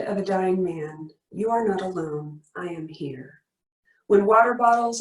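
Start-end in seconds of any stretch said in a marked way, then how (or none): 1.3-3.4 softer toward the end; fading bedside whisper. Shown as a demonstration. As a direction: soothe a dying man. At a dying man's bedside.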